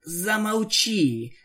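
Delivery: slow hoarse rasped plea. Acted. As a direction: croak it with a dry throat. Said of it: "прохрипела Рейнбоу".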